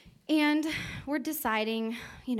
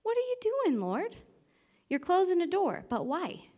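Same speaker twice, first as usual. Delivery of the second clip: retold plea to God; 9 semitones higher than usual.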